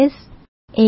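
S and A said one letter at a time; spelling out. Shown as a demonstration. Radio host starting to spell the page name, letter by letter. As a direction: say S, then A, with a clear pause between. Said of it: "สะกดก็คือ".

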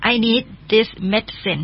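slow, careful English; slow teacher model; slow model reading. Shown as a demonstration. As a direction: read slowly for learners. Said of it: "บิลก็บอกว่า".

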